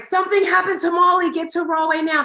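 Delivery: a mother retelling her daughter's screaming phone call, frantic shout; retold scream. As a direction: shout it in panic, high and loud. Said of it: "she's screaming".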